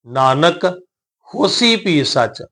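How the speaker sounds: ਨਾਨਕ lightly lifted, a pause, then slow ਹੋਸੀ ਭੀ ਸੱਚ; short rest after ਨਾਨਕ. Shown as a demonstration. Teacher shows the small rest, ਨਾਨਕ, pause, slow ਹੋਸੀ ਭੀ ਸੱਚ. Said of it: "ਛੋਟਾ ਜਿਹਾ ਵਿਸ਼ਰਾਮ ਦੇ ਕੇ ਕਹਿ ਲਓ".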